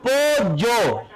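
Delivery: "Pollo" with a y sound, "po-yo". Shown as a demonstration. Teacher showing the ye, "Pollo" said "po-yo". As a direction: say "Pollo" with plain yeísmo, no l. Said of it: "La ye es así".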